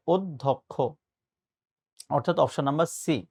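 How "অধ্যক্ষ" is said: অধ্যক্ষ said carefully as "oddhokkho"; correct pronunciation. Shown as a demonstration. Teacher giving students the exam answer, careful correct pronunciation of অধ্যক্ষ. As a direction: sound out অধ্যক্ষ with an o at the start. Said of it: "প্রমিত বা সঠিক উচ্চারণ হচ্ছে".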